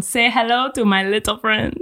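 loosely attempted French accent. Host guessing at a famous movie line, attempted French accent. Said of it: "I feel like this one's an accent".

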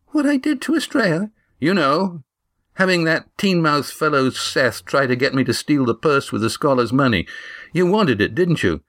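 put-on high, outraged girl's voice; indignant Eva. A narrator's reading. Eva accusing Damon of the theft, high indignant voice. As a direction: throw the accusation back at him.

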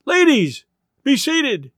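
high call to the audience; showman's cry. A narrator's reading. Showman calling the ladies to order, crying out. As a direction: announce it in minstrel fashion. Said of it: "might have cried, or been tempted to cry".

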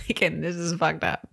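hushed whisper aside. Real, not acted. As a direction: whisper the confession. Confessing an aside.

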